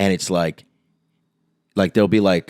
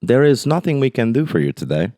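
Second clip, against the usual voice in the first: put-on Swiss accent; 2 semitones higher than usual. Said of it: "it's more like".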